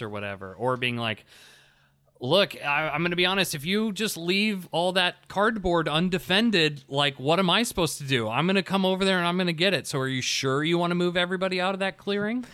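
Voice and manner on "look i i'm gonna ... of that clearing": higher-pitched, patronizing teacher tone; mock-frank coaching of a new player; condescending teaching voice. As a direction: spell it out for a beginner, a little condescendingly. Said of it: "This tone we've taken sounds so condescending".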